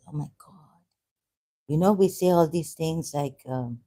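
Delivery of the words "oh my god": breathless, barely voiced oh my God; shocked whisper. Real, not acted. Alarmed at her own harsh words, a whispered gasp. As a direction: gasp it under your breath, caught out. Catching herself after a harsh word.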